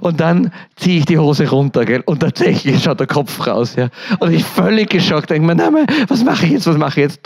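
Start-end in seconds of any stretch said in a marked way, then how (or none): 5.5-7.2 high, panicked outburst; mock panic, voice jumping up; panicked cry. Panicking paramedic to himself in the ambulance, high-pitched alarm. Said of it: "Totale Panik".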